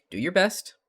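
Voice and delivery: put-on high, loud encouragement in a loose Californian accent; rough Californian accent. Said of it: "not even really properly Californian accent".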